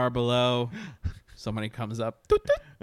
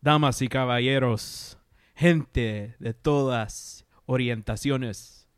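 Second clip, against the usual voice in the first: lucha libre announcer; 3 semitones lower than usual. Pretend. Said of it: "that was Latino Dracula".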